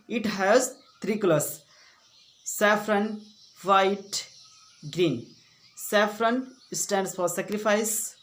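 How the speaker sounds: slow, deliberate recitation; model school speech. Shown as a demonstration. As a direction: recite it phrase by phrase as a stage speech.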